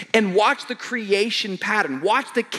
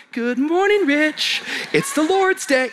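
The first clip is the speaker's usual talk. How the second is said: talking butterfly; 8 semitones higher, slower than usual. Pretend. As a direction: chirp it like a tiny cartoon creature. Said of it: "wake up in the morning going".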